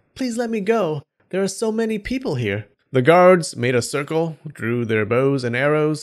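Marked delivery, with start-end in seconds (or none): 0.1-2.6 very high, terrified crying out. A captured fox woman brought before the guards cries out in terror. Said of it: "The woman cried out in terror".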